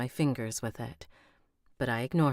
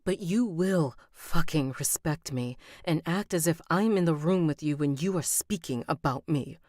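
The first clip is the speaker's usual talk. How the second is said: angry and tearful; 3 semitones higher, 4 dB louder than usual. Acted. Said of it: "My eyes water".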